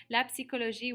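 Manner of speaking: "psychologie" with an audible P before the S; sounded P. Shown as a demonstration. Teacher reminds class of the French word, P sounded in "psychologie". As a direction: pronounce the P in "psychologie". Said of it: "we do pronounce that P".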